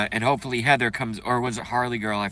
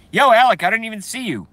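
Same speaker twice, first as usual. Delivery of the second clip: excited greeting; 8 semitones higher, 3 dB louder, faster than usual. Real, not acted. Greeting a chat viewer.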